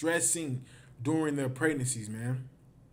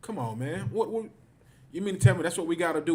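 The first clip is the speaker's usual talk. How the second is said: indignant disbelief; 2 semitones higher, faster than usual. Real, not acted. Mocking advice to get along.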